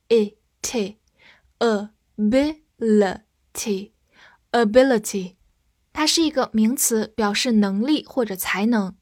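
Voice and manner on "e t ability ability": whisper. Shown as a demonstration. Spelling drill whispered.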